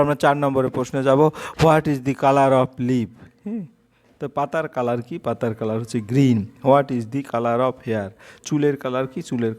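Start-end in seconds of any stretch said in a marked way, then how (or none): 1.6-3.1 slow, word by word like dictation; dictating a question slowly; slow read-aloud. Shown as a demonstration. Teacher reads the question slowly. 6.7-8.1 slow, word by word like dictation; dictating a question slowly; slow read-aloud. Shown as a demonstration. Teacher reads the question slowly.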